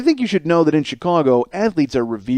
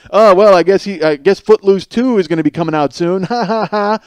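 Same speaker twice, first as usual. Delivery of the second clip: mock snark; 4 semitones higher, 5 dB louder than usual. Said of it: "Tons of people underneath were just like".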